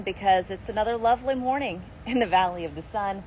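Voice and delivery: mildly sarcastic cheer; a touch of sarcasm under a breezy delivery. Real, not acted. Forecaster previewing live hit from the garden, mildly sarcastic. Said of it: "Yes, I'm being sarcastic".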